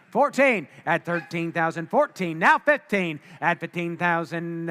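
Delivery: rapid auctioneer bid calling. Real, not acted. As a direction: call the bids like an auctioneer.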